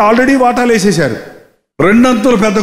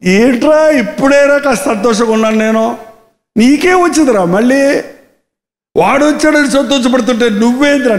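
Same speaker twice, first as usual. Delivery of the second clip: pleading father. Retold or imitated. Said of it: "లోపలికి రమ్మని బతిమా".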